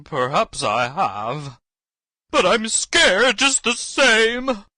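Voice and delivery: a cowardly lion quavering; Lion confessing to the wizard he is still scared. Acted. Lion admits fear.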